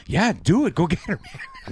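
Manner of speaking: high, breezy go-ahead, hammed up; imitated carefree agreement, laugh creeping in; mock nonchalance. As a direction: wave it off cheerfully as the oblivious character. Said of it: "they're all pretty light about it".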